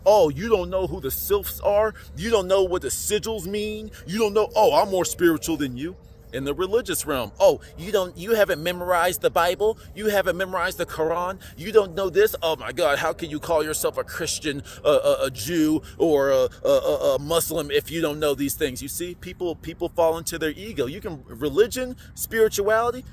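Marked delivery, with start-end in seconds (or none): 0.0-6.0 lightly hammed-up one-upping snob; mock a holier-than-thou know-it-all, incredulous questions; mock condescension. Mocking spiritual know-it-alls. 7.4-18.8 lightly hammed-up holier-than-thou scolding; mock indignation. Mocking religious know-it-alls.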